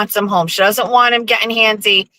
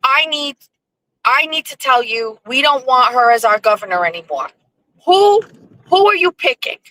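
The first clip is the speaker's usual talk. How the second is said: higher, emphatic retold voice of a friend; imitating Blackie; 3 semitones higher than usual. Blackie demanding who she backs for governor, imitated emphatically. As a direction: play the opinionated friend, pitched up. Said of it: "He goes".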